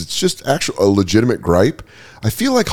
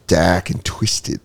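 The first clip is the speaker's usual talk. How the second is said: put-on slow Australian accent on "Dak and Twisted"; 4 semitones lower, 4 dB quieter, much slower than usual. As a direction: drawl "Dak and Twisted" like an Aussie. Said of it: "in the Australian accent".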